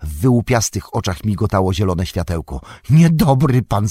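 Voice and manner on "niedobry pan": sharp hissed accusation; Gollum hissing. A narrator's reading. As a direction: spit the words out in a high hiss. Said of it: "syknął".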